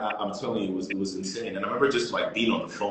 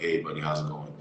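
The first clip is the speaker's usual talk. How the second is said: softer, subdued phone greeting; low energy; 3 semitones lower, 5 dB quieter than usual. Retold or imitated. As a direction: greet him with the energy drained out. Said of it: "very low, en-, low energy on the phone".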